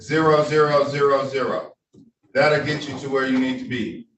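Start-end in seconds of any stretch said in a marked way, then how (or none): 0.0-1.7 slow, careful digit by digit; dictating. Shown as a demonstration. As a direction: read the code out slowly and clearly. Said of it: "So the Zoom code is different".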